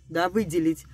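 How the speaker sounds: normal talking voice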